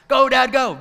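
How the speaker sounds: put-on high, loud kids' shout; kids urging dad. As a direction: yell to dad from the back seat. Kids yelling to texting dad.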